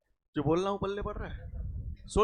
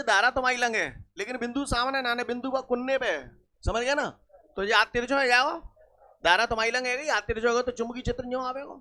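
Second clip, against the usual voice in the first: rural Hindi dialect. Shown as a demonstration. Teacher restating the current-direction rule for students, rural Hindi dialect. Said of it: "अब वाल में न्यों बोल दो".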